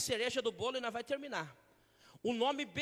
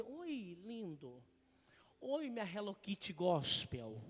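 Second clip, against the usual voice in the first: mock sweet God; slower than usual. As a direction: coo it like a doting lover. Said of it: "Deus só vai falar assim".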